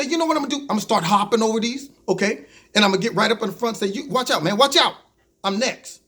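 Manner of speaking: mildly hammed-up irritation; acted mad. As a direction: play someone pushing to the front, a touch mad. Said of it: "you get so mad that you say".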